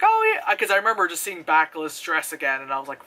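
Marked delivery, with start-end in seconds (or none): 0.0-0.5 much higher, louder gush; mock delight. Reviewer recalling own trailer reaction, much higher excited gush. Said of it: "where I was like".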